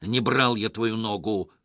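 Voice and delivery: mild yell upward; yelled at the ceiling. Acted. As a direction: shout it at the ceiling, fed up. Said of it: "заорал Петро в потолок".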